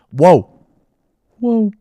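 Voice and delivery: sharp, loud, high startled whoa; whoa, shocked by what happens on screen; surprised whoa. Real, not acted. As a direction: gasp it out in real surprise. Reaction to surprising fight moment.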